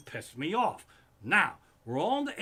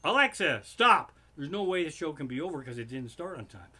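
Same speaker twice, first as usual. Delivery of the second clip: loud sarcastic snap on stop, then rattled off fast; mock the husband's theory, loud then fast; mocking imitation; 4 dB louder than usual. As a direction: tease him like a know-it-all. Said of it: "her and my wife were mocking me".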